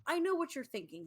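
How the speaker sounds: a lightly voiced all-knowing God. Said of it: "he says".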